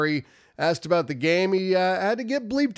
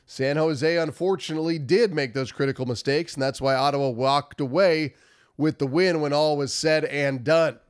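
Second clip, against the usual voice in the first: nasal, stuffy cold voice. Real, not acted. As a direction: talk through a blocked nose. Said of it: "I apologize for my nasally voice".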